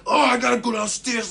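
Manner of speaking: half laughing, off to go; laughing urgency. Retold or imitated. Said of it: "So I'm like".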